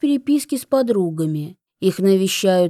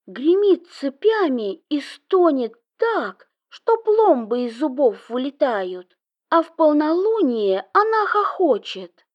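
spooky gleeful storytelling; 7 semitones higher than usual. Acted. Sister tells ghost story gleefully.

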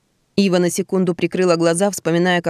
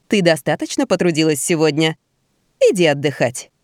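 kindly. Acted. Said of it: "доброжелательно сказала Эсмеральда".

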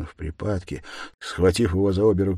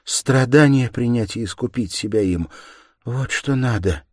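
higher, louder, fervent woman; earnest urging; 6 semitones higher, 6 dB louder than usual. A narrator's reading. Sonya telling him to accept suffering, earnest. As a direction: insist with raised, fervent voice.

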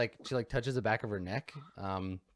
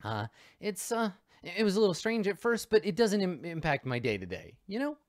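a higher, awkward mom voice; hesitant suburban mom; 7 semitones higher than usual. Acted. Mom explaining implants to the investigator, higher and hesitant. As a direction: she picks her words carefully.

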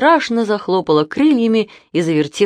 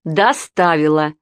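curt snap; slower than usual. A narrator's reading. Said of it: "отрезала тётя".

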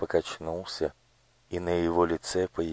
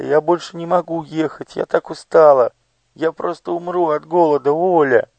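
begging; 10 semitones higher, 4 dB louder than usual. Acted. Elo begging Olya.

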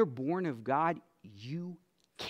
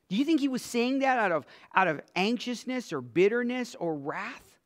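faster and louder, pushing the question; pressing harder; 8 semitones higher, 5 dB louder than usual. Acted. Preacher pushes the congregation with a quicker, louder question.

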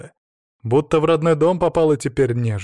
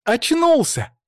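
high, louder joyful call; excited yell; 11 semitones higher, 4 dB louder, slower than usual. A narrator's reading. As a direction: shout the news to everyone. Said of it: "завопил знакомый голос".

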